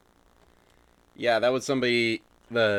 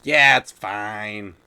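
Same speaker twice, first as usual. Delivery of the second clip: hesitant stammer; 3 semitones higher, 5 dB louder, much slower than usual. Retold or imitated. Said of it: "And I just was like".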